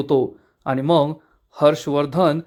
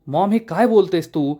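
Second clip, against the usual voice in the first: hurt, much higher voice pleading with his mother; angry son; 7 semitones higher than usual. A narrator's reading. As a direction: rise up high, upset and accusing. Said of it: "Aditya चिडून म्हणतो".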